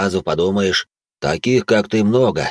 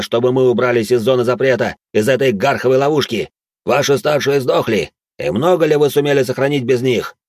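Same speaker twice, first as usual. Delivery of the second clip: higher, louder indignant shouting; angry rant; 4 semitones higher, 3 dB louder than usual. Acted. Браут яростно спорит с Седым о младших. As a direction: rail against him. Servant angrily argues back.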